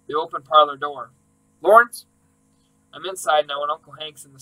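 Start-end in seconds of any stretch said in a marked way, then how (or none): 1.6-2.1 loud high call of the name. Acted. Uncle calling for grandpa through the house, loud. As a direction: shout for him across the house.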